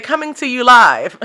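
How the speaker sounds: announcer line through a laugh; laughing mock newscaster. Vlogger joking like a TV anchor, laughing. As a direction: play a live news host, giggling. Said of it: "I felt like I wanted to say".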